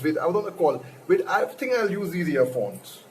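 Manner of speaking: normal talking voice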